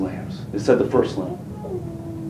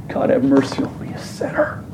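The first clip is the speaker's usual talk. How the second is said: whispered plea; 5 dB quieter than usual. Retold or imitated. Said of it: "that hits the ground and just sobs".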